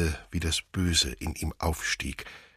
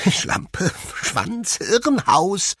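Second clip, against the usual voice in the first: whispered then rising to a much higher, louder cry; hysterical tic outburst; 14 semitones higher, 8 dB louder, much slower than usual. Acted. Will laughing hysterically as the tic words burst out loud and high. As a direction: let it climb from a breath to a high yelp. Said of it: "er lachte hysterisch".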